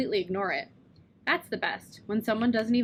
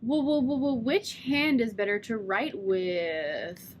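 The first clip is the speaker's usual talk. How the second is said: stuttered joke; slower than usual. Retold or imitated. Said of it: "I sang my way through a new joke".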